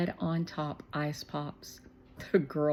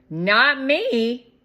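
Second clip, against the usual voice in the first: higher, louder firm refusal; stubborn kid; 7 semitones higher, 11 dB louder than usual. A narrator's reading. Shermie refusing ice pops, firm loud. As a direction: say it flat out, firm.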